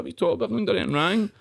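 high, indignant outburst; protest, voice jumping high; outraged. Retold or imitated. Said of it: "I was raging about it".

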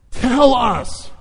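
high, urgent cry; desperate demand. Acted. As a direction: plead at the end of your patience. Men beg for the answer.

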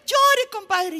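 loud, high, drawn-out yell; shouted calling out. Acted. Friend on the pier to drowning compadre, calling out loudly. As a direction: call out to someone down in the water. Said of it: "el que estaba en el puente le gritaba".

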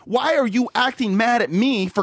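acting out calling a scammer's bluff; exasperated accusation. Worker confronts scammer caught at the counter, retold exasperation. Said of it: "And I'm like".

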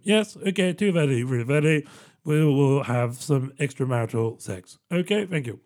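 a lightly voiced, prim middle-class couple arranging an affair; mock polite and proper, as if booking a dentist; hammed-up genteel radio drama voice, lightly done; prim radio-drama lovers. Mocking genteel Archers affair dialogue.

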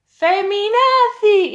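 very slow, high, loud jeer; sneering insult. Retold or imitated. Heckler insulting Andrea, loud drawn-out sneer. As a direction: spit out the slur, drawn long. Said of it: "Y uno soltó".

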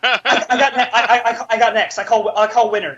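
laughing, stammering imitation; giggly mocking stammer; mock eager guy. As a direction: fumble the claim through a laugh.

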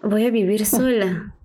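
flat dawning dread, no thrill left; sinking realization. Retold or imitated. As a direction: let it land as the truth sinks in. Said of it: "Y después fue como".

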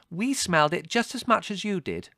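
high, loud offended retort; indignant. A narrator's reading. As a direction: protest crossly at the slight. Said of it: "said Margot indignantly".

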